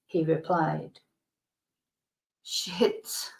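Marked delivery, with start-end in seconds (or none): 2.4-3.3 soft voiceless whisper, rising; whispered thought. Retold or imitated. Teacher's silent curse on hearing wife died, whispered. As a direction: breathe it as a private curse. Inner thought after awkward news.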